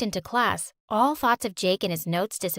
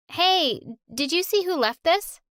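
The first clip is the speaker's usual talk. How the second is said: calling across the road; 7 semitones higher than usual. Acted. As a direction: call out across the street.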